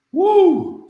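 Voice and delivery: high, loud whoop of approval; big celebratory woo; excited whoop. Real, not acted. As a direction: cheer the line like a hype man. Hyping a dropped quote.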